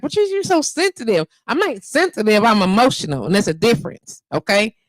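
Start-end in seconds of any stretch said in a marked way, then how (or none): 0.0-1.3 mocking quote. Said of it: "they be like".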